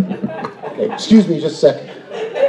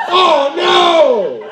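mock shame; 9 semitones higher, much slower than usual. Mocking audience's guilty reaction.

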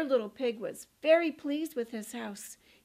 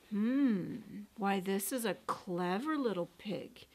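scheming wolf; 5 semitones lower, 4 dB quieter than usual. Acted. Wolf thinks, feigning calm.

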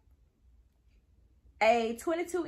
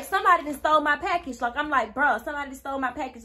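louder, higher outburst retelling the theft; retold upset; 3 semitones higher, 5 dB louder, faster than usual. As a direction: act out being mad about a stolen package. Retold alarm at missing package.

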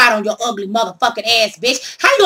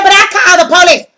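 high, loud indignant complaint; whiny protest; 7 semitones higher, 8 dB louder, faster than usual. Retold or imitated. Thief protesting to the police she called, loud indignant whine. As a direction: protest loudly that it's unfair.

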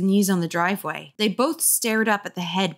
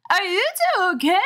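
higher, quick check-in; high worried girl voice; 12 semitones higher, 4 dB louder, faster than usual. A narrator's reading. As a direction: fuss over the boys. Girl checks on scared boys.

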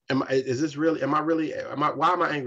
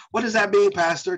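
congregant asking; 7 semitones higher, 6 dB louder than usual. Retold or imitated. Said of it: "So now we're gonna get to that".

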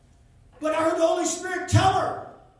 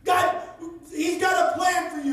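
loud call across the traffic; retold scream; 3 semitones higher than usual. Preacher retells calling to a stranger, loud. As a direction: call out so she can hear you. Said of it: "So I screamed it as loud as I".

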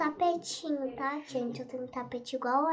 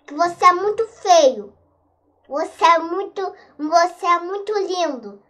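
loud, frantic high pleading; 3 semitones higher, 12 dB louder than usual. Real, not acted. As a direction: beg the monster loudly. Pleading with chasing monster.

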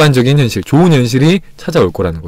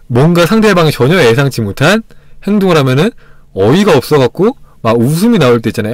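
ordinary talk, nothing marked

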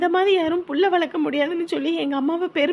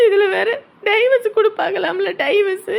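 crying out louder through tears; tearful outburst; 2 semitones higher, 4 dB louder than usual. Acted. Wife crying to husband about the divorce rumour, sobbing loudly. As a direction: sob out the hurt, voice breaking.

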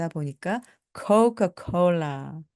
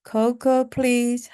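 polite request; 5 semitones higher, much slower than usual. Shown as a demonstration. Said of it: "model request".

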